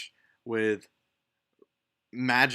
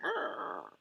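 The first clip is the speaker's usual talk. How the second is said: low, soft creaking noise of a hanging door; quiet, low drawn-out "arr" creak; imitated door creak; 4 semitones lower, 8 dB quieter than usual. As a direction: voice a door sagging on one hinge. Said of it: "and it's like".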